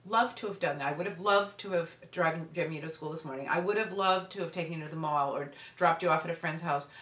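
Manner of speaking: calm, even and measured; calmly. Shown as a demonstration. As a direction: keep it steady and calm. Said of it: "You just calmly say".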